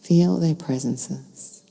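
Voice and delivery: calm meditation guide with long pauses between phrases; unhurried, soothing guidance, phrase by phrase; guided meditation. Real, not acted. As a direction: lead listeners gently into stillness, leaving space to breathe.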